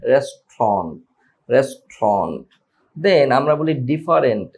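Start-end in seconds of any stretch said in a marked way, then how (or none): 0.1-2.5 রেস্টুরেন্ট as RES-tront, pitched lower, falling; native restaurant. Shown as a demonstration. Teacher leads students repeating রেস্টুরেন্ট as RES-tront. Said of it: "আপনারা আমার সাথে বলা try করেন".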